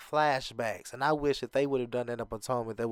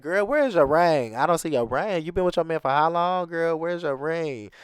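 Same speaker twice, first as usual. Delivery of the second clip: sassy imitation; 3 semitones higher, 4 dB louder than usual. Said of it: "She didn't say it like that, but that's pretty much how she was saying it".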